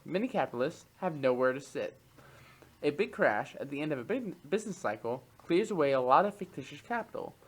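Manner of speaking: measured expository read-aloud, crisp phrase by phrase. Acted. Podcast host reads an economics text to co-host, reading aloud. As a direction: read it out like a written treatise.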